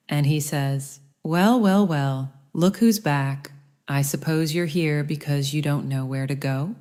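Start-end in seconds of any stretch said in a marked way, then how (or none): 1.2-6.7 annoyed, accusing. Acted. Museum curator greets Tex and Joe with annoyed accusation. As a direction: sneer at the returning detectives. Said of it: "His tone is laced with annoyance and a hint of accusation".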